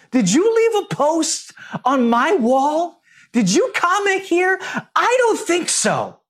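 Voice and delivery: high, indignant genie voice. Retold or imitated. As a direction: squeal it like an insulted genie. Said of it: "it's the genie coming out of the lamp".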